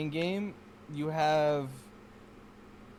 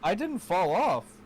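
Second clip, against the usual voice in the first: loud, slow and higher, insisting; indignant denial; 5 semitones higher, 5 dB louder than usual. Real, not acted. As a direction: protest it loudly. Indignant denial during a race.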